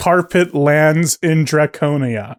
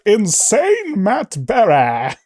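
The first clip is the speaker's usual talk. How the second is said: insane Matt Berry impression; 4 semitones higher, slower than usual. Shown as a demonstration. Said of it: "It's sort of a insane Matt Berry".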